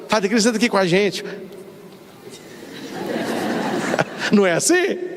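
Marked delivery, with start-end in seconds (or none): 0.1-1.2 mimicked invitation, hurried. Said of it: "Eu, eu fico assim, ó".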